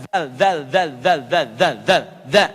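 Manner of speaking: "zal" with tongue tip between the teeth; repeated demo of "zal", tongue between teeth; letter zal. Shown as a demonstration. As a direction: bite the tongue lightly for "zal". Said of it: "Za harfun lithawi".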